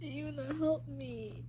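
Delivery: soft, drained and breathy; whispered, worn out; exhausted whisper. Real, not acted. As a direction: spent after crying. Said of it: "God damn".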